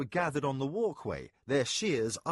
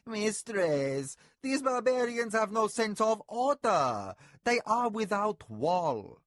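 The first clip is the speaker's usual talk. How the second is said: a servant pleading hotly, higher and louder; hot protest; 10 semitones higher, 5 dB louder, slower than usual. A narrator's reading. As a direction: protest hotly in your own defence. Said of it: "protested hotly in his own defence".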